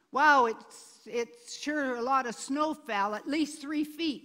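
exaggerated wow, loud at the start; mock amazement. Imitating someone exaggerating how much snow fell, mock amazement. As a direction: play up an impressed tall tale.

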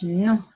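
put-on teacher repeating Non for the children; French non. Shown as a demonstration. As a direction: repeat Non firmly for the class. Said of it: "So that's no in French".

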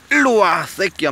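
loud call to the dog. Real, not acted. Owner calling his wandering dog back, loud call.

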